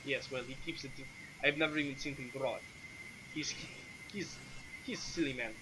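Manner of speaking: light, dismissive foreigner in broken Common; lightly voiced Sergei. Sergei warns an adventurer about the Count, lightly accented and dismissive.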